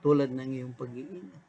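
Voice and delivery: earnest, hushed pastoral prayer; closing prayer. Acted. Pastor leading listeners in morning prayer, hushed and earnest.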